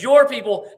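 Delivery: strong high emphasis on "Your"; stress on YOUR. Shown as a demonstration. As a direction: punch the word "Your". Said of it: "And so he says".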